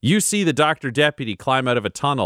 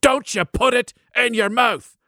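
higher, sing-song echo of the warning; mock imitation of the Chosen One; 10 semitones higher than usual. Marith mimicking the Chosen One's warning, higher. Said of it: "what the Chosen One said".

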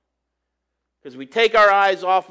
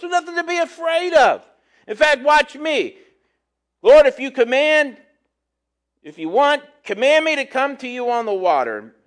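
playing confident Peter; 5 semitones higher than usual. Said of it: "Peter's sitting here with Jesus saying".

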